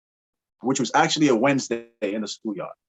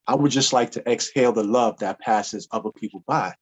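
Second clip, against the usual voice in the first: romantic poem recital. Pretend. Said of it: "You said who?".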